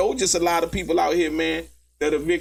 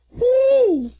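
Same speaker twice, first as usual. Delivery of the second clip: high loud woo; whoop; 5 dB louder than usual. Real, not acted. Streamer whooping at the courtroom clip, high and loud. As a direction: whoop in delight.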